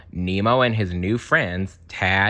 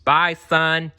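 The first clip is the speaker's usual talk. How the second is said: higher, louder worried dad's call; Marlin calling; 8 semitones higher, 5 dB louder than usual. Acted. Marlin calling goodbye as his son leaves. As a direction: call after your son fondly. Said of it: "Marlin called".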